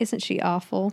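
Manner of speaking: quiet aside, muttered under the breath. Retelling a scene where Blanche remarks after a woman walks off: Blanche's under-the-breath aside. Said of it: "almost under her breath".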